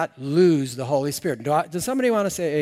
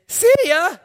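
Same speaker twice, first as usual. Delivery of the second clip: a high, loud, mocking "See ya"; hammed-up mob send-off; mock mobster farewell; 13 semitones higher, 8 dB louder than usual. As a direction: toss it off like a gangster dumping someone. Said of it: "and they say".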